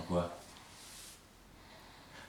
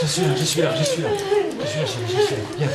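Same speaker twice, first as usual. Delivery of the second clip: urgent high reassurance; 6 dB louder, faster than usual. Acted. Comforting in panic, loud high.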